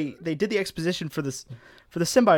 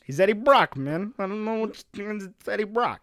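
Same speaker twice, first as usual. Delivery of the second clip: bad New Jersey accent; 5 semitones higher than usual. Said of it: "That accent was terrible".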